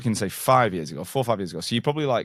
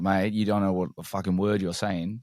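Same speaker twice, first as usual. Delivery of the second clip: lightly imitated Aussie bloke; Australian accent. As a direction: mimic an Australian mate ribbing someone. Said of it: "Pretty good accent".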